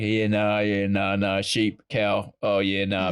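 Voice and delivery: lightly voiced rural New Zealand accent; New Zealand farmer accent. Sheep farmer listing sheep, cow, beer, rural Kiwi accent. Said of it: "I'm a sheep farmer in the deep south in New Zealand".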